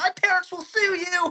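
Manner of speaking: put-on very high little posh kid voice. Speaker retells what they'd say if beaten down in a mosh pit, imitating a posh kid. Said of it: "a little posh kid".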